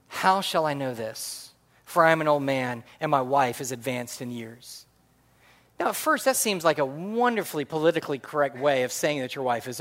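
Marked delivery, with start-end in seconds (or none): 0.1-4.9 measured scripture reading. Acted. Reading Zechariah's words from Scripture.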